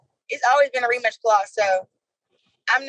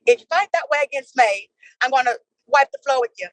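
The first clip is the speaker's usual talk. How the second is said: lightly put-on British accent; a hint of teasing British mimicry; sister's mock British. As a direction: imitate your sister mimicking a British rival. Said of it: "She'd be like".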